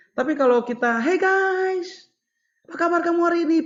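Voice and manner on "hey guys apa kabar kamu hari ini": high, bright, lively tone, "guys" stretched. Showing how to greet the kids in class: high-pitched greeting. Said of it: "Pakai nada-nada tinggi".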